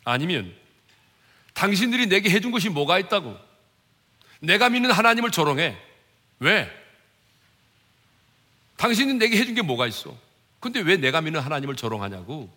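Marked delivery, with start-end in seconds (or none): 1.5-12.5 acted angry comeback, raised voice; indignant retort. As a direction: throw the blame back at the mockers. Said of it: "그들을 비난하고 조롱했습니까?".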